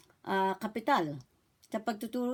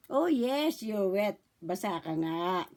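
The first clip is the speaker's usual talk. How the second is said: put-on talking to a baby; 4 semitones lower, slower than usual. Shown as a demonstration. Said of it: "Sasabihin niyo po".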